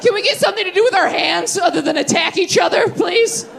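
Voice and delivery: laughing, strained plea for help; exasperated plea. Acted. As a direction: beg the staff over the noise, laughing. Shouting plea to restaurant staff.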